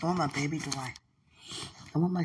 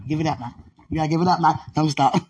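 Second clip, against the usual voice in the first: preaching shout; 10 dB louder, faster than usual. Retold or imitated. Quoting the preaching, laughing.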